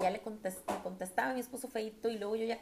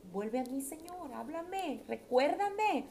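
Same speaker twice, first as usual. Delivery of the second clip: inner prayer; 6 semitones higher, slower than usual. Retold or imitated. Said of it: "clámale a Dios ahí en tu interior".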